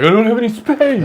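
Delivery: mock complaint. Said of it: "and he's like".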